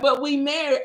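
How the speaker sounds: high, mock-pleading objection; playful retold protest; husband protesting.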